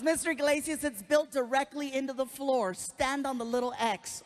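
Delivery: a gushing fan nurse, lightly voiced; sweet nurse voice. Nurse gushing to a famous patient, lightly voiced. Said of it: "She goes".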